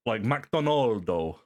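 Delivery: Japanese-style loanword; katakana style. Shown as a demonstration. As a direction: say McDonaldo with a Japanese katakana sound, slow. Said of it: "that's how it's spelled in their katakana form".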